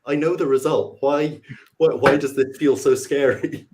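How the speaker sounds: lightly acted anxious bafflement; retold nervousness. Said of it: "incredibly nervous".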